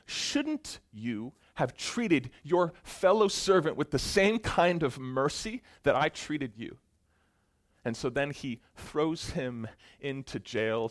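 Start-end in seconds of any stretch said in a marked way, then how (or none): 0.1-6.8 slow, higher, louder stern rebuke; angry ruler. Acted. Ruler angrily confronting the unmerciful servant, slow and stern. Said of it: "he's so angry".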